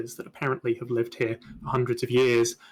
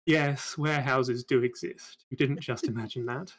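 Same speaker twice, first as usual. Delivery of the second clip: deep sultry voice; 4 dB quieter than usual. Acted. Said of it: "a rather deep and sultry voice".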